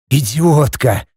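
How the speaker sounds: слегка хриплое ругательство; выругайся с лёгкой хрипотцой, без крика; прохрипел. A narrator's reading. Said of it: "прохрипел я". (сдержанный хрип)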